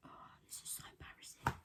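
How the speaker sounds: real tearful near-whisper, very soft; holding back tears. Real, not acted. Embarrassed to cry on camera while posting her loss, holding back tears. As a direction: voice lost to crying, barely getting words out. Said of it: "trying so hard to hold these tears back".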